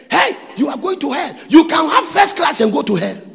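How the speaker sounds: high, loud street-preacher shout; re-enacted fiery warning. Preacher re-enacts warning hostel students of hell, shouted warning. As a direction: warn sinners loudly, as if waking a hostel.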